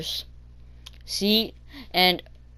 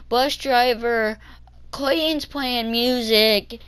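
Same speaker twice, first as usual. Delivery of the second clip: slow, higher mock tattle; lightly voiced tattling girl; 5 semitones higher, slower than usual. Little girl telling the bus driver about music, lightly mocked tattling. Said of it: "she was a little girl".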